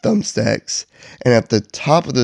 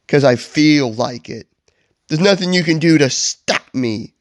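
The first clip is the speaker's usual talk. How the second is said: theatrical, raised-pitch stubbornness; hammed-up villain bravado; defiant Grinch; 4 semitones higher than usual. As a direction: insist grandly that nobody can stop you. Grinch's defiant reply to Kevin.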